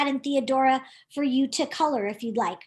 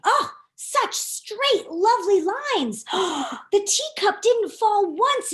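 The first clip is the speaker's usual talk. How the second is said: much higher, very slow and sing-song; delighted admiration; 6 semitones higher, slower than usual. Acted. Theodora admiring her own swimming lines, high and slow. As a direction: savour every word, charmed.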